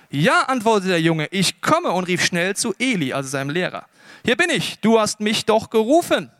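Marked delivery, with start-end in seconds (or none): 0.1-0.4 put-on high, loud boy's answer; eager young pupil answering a call. Boy answers God's call in story. 1.3-1.9 eager call. Acted. Boy runs to his teacher. 4.2-6.3 raised, louder voice of a keen pupil; insistent, high-pitched young helper; eager boy. Acted. Boy reports eagerly to his teacher.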